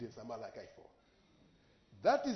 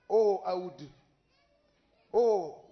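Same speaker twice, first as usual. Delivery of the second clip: awed exclamation; 3 semitones higher, 10 dB louder, slower than usual. Retold or imitated. Exclaiming in remembered awe.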